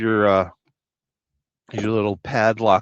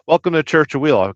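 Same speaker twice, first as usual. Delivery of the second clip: hammed-up welcome; 6 semitones higher, 7 dB louder than usual. Show intro call.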